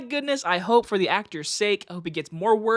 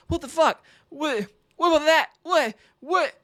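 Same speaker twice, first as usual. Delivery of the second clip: baffled what's; 8 semitones higher, 3 dB louder than usual. Retold or imitated. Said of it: "I'm like".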